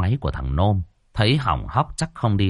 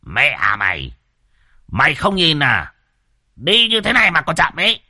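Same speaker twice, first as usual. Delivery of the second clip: climbing much higher and louder; cocky old driver; 6 semitones higher, 3 dB louder than usual. A narrator's reading. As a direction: brag about his speed. Đồng boasting.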